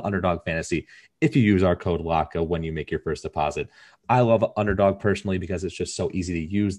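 even, scripted sponsor read; podcast ad read. Real, not acted. Host plugging a fantasy football sponsor to listeners, podcast ad read. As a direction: read the sponsor copy as a steady pitch.

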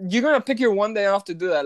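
quick, falling deadpan "you're gonna pick your one day off to do that."; flat restatement. Retold or imitated. Clerk repeating the point to her audience, fast deadpan fall. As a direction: rattle it off as a dry verdict. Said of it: "you can do that any other day".

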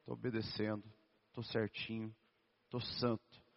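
soft, low, meek little recital; mock obedient pose. Believer posing as obedient before God, quiet mock piety. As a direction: play the saint, low and hushed. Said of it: "A gente faz ali uma posição de".

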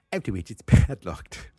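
laughing through a bad Australian accent. Shown as a demonstration. Host cracks up reading rules, bad Australian accent. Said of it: "try to do Australian".

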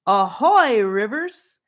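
high, loud answering hail; theatrical. A narrator's reading. Hymnia answers Rivers from the tree, theatrically. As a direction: call back grandly, stretching the ahoy. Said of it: "came a theatrical voice back".

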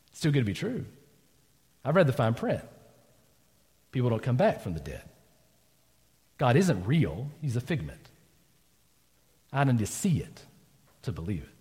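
words of someone who gave up; bitter quiet doubt. Pretend. The preacher voices a doubter, bitter and quiet.

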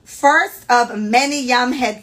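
slow, careful Jamaican read-aloud; deliberate Jamaican-accented storytelling; proper Jamaican accent. Acted. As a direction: read it measured, in a polite Jamaican lilt. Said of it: "I'm gonna talk like this".

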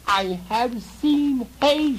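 high, loud, slow shriek; shrieking goblin grandmother; goblin grandmother scream. Acted. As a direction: screech it like an old goblin. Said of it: "she screamed".

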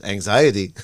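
lightly mimicked parental disbelief; imitating incredulous dad. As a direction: repeat it like dad finds it crazy. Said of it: "He looks at you like you're crazy".

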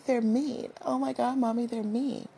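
high whiny crybaby voice; big baby. Pretend. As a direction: whimper to mommy like a baby. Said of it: "Don't I sound like a big baby?".

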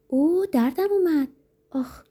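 high-pitched acted yelp of hurt; acted wince in a high woman's voice; cry of pain. A narrator's reading. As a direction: protest that it hurts, voice jumping up. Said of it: "وحشت باعث شده بود که درد از یادش بره".

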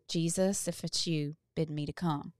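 soft, hushed plea; quiet afraid prayer. Pretend. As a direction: say it softly, almost to yourself. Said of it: "do it afraid and say".

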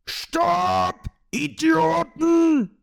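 high, stretched-out holler; exasperated high yell; shouted command. A narrator's reading. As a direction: call them to a halt. Boss halts his charging pirates.

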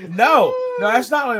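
loud, high imitated objection; mock exasperation. People rejecting his answer of Scotland, in mock exasperation. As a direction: play someone frustrated by the answer.

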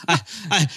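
high laugh breaking into the words; laughing off the claim about the South; real laugh. Real, not acted. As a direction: laugh before stammering on. Laughs at the heat remark.

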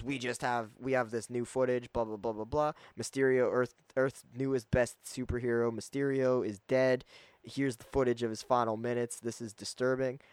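hammed-up tabloid anchor breaking the story; J. Jonah Jameson. A hint of a tabloid anchor reporting Mysterio's death, blustering. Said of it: "J K Simmons is back as J. Jonah Jameson".

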